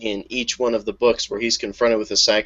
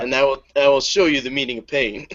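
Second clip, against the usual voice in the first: menacing Lion; 3 semitones higher than usual. Retold or imitated. Co-host voices Lion threatening.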